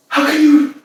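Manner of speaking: high and loud, laughing through the words; breaking into a laugh of giddy disbelief. Acted. Woman marvelling at the lover who sent her a thousand roses, laughing high.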